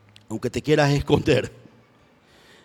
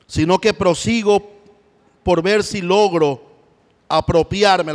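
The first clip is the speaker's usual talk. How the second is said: louder, higher, slowed on logro; fervent proclaim; 3 semitones higher, 5 dB louder, slower than usual. Acted. Preacher reading Paul, loud and fervent. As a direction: press forward in the words.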